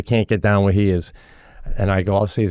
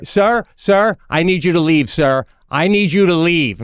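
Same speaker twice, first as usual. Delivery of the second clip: high, insistent mock order; imitated officious coach; 8 semitones higher than usual. Coach kicking a dad out before other parents, mock indignation. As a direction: order him out in a pitched-up voice.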